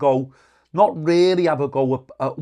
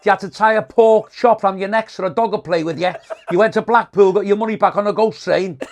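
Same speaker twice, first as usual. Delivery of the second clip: higher, punchy retold insult volley; mock savaging; 4 semitones higher, 4 dB louder than usual. Comic tears into a heckler in retelling, mock savaging. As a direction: fire off the put-downs, pitch raised.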